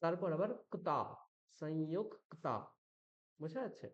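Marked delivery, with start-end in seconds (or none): 1.6-2.6 সংযুক্তা with ক held double; যুক্তবর্ণ দ্বিত্ব; doubled ক. Shown as a demonstration. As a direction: lean on the ক in সংযুক্তা. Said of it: "দুবার উচ্চারণ করতে হবে".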